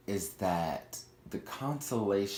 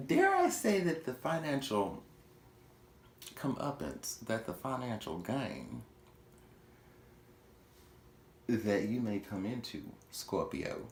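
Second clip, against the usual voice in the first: mock Southern Louisiana accent, dramatic reveal; terrible Southern Louisiana accent; 3 semitones higher than usual. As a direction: play a bad Southern Louisiana accent for fun. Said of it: "that's a terrible Southern Louisiana accent".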